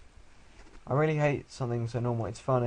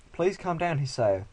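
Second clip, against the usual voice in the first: louder, higher mock doctor; put-on doctor voice; 6 semitones higher, 4 dB louder, slower than usual. Doctor telling the patient to calm down, put-on voice. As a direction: plead loudly in a silly doctor voice. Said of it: "Stop li-, talking his voice".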